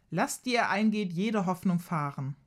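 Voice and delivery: theatrical, slow proclamation; villain boss. Acted. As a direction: declaim it like a grand villain. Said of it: "breitet theatralisch die Arme aus".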